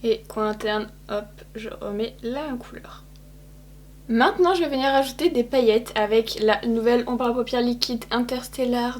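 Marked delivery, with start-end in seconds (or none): 1.1-3.0 soft whisper to herself; quiet whispered hop; whispered aside. Real, not acted. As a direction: murmur it while working. Quick aside while applying.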